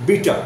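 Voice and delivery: "বিটার" ending in an open ah, no R; British-style "বিটার", said bee-tah; silent final R. Shown as a demonstration. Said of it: "রয়ের উচ্চারণ হবে না".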